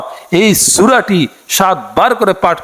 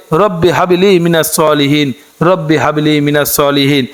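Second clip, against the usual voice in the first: dua recitation; 3 semitones lower than usual. Acted. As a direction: draw each phrase out like a prayer. Demonstrates pronunciation.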